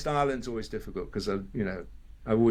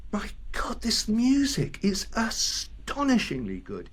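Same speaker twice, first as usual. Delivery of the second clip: hushed, slow and higher, as if stunned; awed whisper; 9 semitones higher, slower than usual. Retold or imitated. Inner thought quoted in awe.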